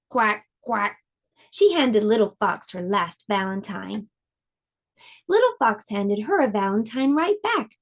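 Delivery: gentle storybook read-aloud; lively storybook narration for little listeners; reading to children. A narrator's reading. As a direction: tell it like a bedtime picture book. Reads picture book to children.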